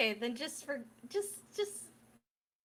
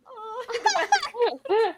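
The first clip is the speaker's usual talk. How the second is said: cooing aw; 11 semitones higher, 9 dB louder than usual. Retold or imitated. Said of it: "Both Annabelle and Octavia going".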